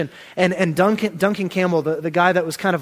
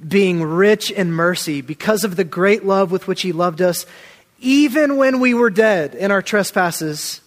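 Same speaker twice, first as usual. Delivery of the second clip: rising, preaching scripture with growing force; fervent scripture reading. Acted. Preacher reading Ephesians to his church, fervent and rising. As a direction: lift the verse up like a proclamation.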